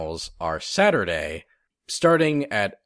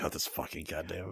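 mock grumbling player; 3 semitones lower, 13 dB quieter than usual. Imitating grumbling Heihachi player.

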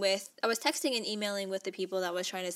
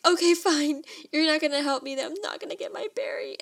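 higher and louder, a mild mock yell; retold angry outburst; 7 semitones higher, 5 dB louder than usual. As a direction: snap back at the bank. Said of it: "yelling and screaming and everything".

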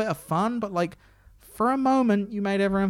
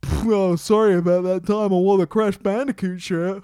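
mock apology; 5 dB louder than usual. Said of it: "where he was like".

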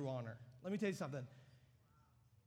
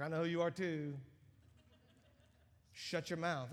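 mild mock retort; 4 dB louder than usual. Demon answered, then silenced.

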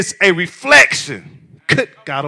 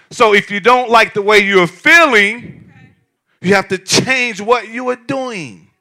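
preached loud; 4 semitones higher, 4 dB louder than usual. Shown as a demonstration. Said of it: "I'm gonna say it again".

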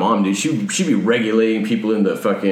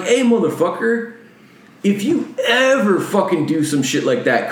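higher-pitched, drawn-out warning; retold angry confrontation; 7 semitones higher than usual. Retelling his threat to the man who cut in, indignant. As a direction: act out calling someone out, voice raised in pitch.

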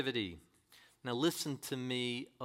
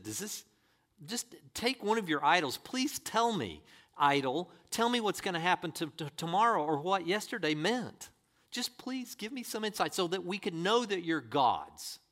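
facetious; 2 semitones higher than usual. Retold or imitated. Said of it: "he's saying that in a very facetious way".

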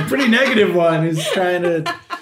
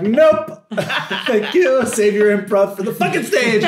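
mock rejection; 5 semitones higher than usual. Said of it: "they're like".

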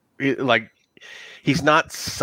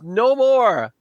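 high desperate cry again, falling; yelling at his tormentor; screaming NPC; 8 semitones higher than usual. Acted. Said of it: "He goes".

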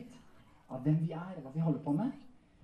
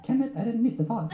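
high, cheeky ventriloquist puppet voice; puppet character; 8 semitones higher, 6 dB louder than usual. Acted. Puppet correcting its handler, high comic voice. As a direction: pipe up higher, like a comic puppet.

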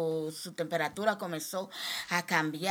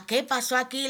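higher, louder tearful demand; crying out; 6 semitones higher, 5 dB louder than usual. Retold or imitated. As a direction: cry out to God in grief. (reclamo llorando, agudo y fuerte)

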